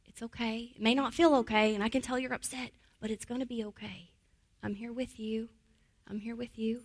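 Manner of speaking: put-on calm a child gently; teacher soothing an upset child. Shown as a demonstration. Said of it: "use a lot of that language".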